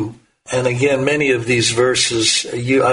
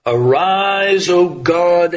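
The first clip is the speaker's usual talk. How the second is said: a raised preacher's cry to God; rising cry; 4 semitones higher, slower than usual. Retold or imitated. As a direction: call it out like a summons to heaven. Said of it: "the cry of the Holy Spirit".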